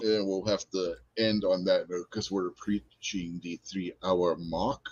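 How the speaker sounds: low, quiet slip into Cockney; soft, accidental Cockney lilt; Cockney English accent. Real, not acted. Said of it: "I don't know why I just busted into a Cockney English accent".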